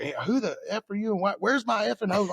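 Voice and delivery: mock yell at an unknown fireman; going off. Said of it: "I just went off".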